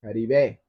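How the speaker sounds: "Caribe" ending on a clear "bay" sound; clear final E. Shown as a demonstration. Host correcting chat's spelling of Caribe, final E clear. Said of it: "with an E on the end".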